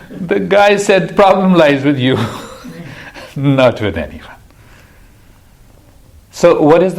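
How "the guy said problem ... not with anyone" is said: chuckling as you deliver the punchline; amused telling. Real, not acted. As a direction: let laughter break into the joke. Chuckling through his own joke's punchline.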